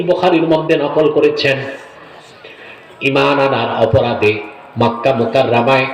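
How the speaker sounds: sing-song sermon narration; ওয়াজের বয়ান. A narrator's reading. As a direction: preach the story in long intoned phrases, letting each sink at the end. Preacher narrates a sacred story. (ওয়াজের সুরে কাহিনি বলা)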